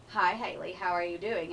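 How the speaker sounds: lightly voiced well-spoken man; a hint of a measured, articulate judge; astute, well-spoken judge. Pageant judge greeting a contestant, lightly imitated as well-spoken. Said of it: "he's the one that talked like this, um, very astute, very well-spoken man".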